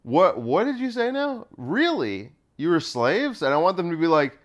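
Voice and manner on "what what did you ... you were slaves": mock-sincere puzzlement; perplexed. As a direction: play it as if genuinely baffled. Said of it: "as sincerely perplexed as possible".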